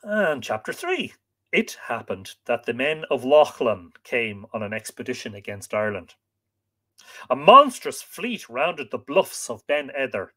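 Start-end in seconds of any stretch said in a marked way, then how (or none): 1.5-10.3 measured, expressive storytelling voice; story narration. A narrator's reading. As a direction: read it like an old legend, stressing key words. Reads the tale aloud.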